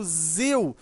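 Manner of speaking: "zil" held long and firm; stressed syllable. Shown as a demonstration. Teacher pointing out the tonic syllable, "zil" drawn out. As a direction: isolate "zil" as the strong syllable. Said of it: "ele é mais forte".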